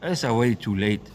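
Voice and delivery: fiery street-preacher rant; raging sermon at the churchgoers; preaching. Real, not acted. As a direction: preach it hard at the crowd. Preaches throughout.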